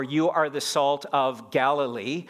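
slow, rising on GALILEE as the contrast; hypothetical quote. Retold or imitated. Preacher listing what Jesus didn't say, slow and pointed. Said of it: "Notice he didn't say".

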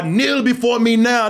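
slow, commanding villain; supervillain voice. Retold or imitated. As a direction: order it like a villain. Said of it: "a supervillain just would have said".

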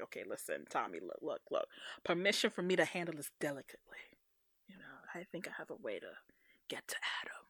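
low, hushed, fast whisper; whispering Aisha. Retold or imitated. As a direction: whisper the plan quickly. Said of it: "she was just like".

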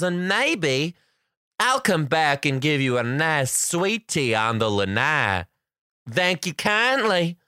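gracious Mother Nature thanking the kids, lightly voiced. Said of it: "This is the Mother Nature voice".

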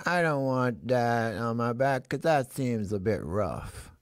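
slow, lightly voiced horse; horse character. Riddle clue from the animal underneath, slow horse character. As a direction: draw it out as a reluctant horse. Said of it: "I like to do my characters".

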